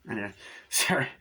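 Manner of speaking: breaks into a laugh mid-line; sheepish laugh, then sorry; laughing apology. Real, not acted.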